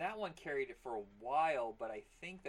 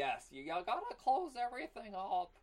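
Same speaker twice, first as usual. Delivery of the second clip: put-on voice; 9 semitones higher, 4 dB louder than usual. Shown as a demonstration. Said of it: "This voice".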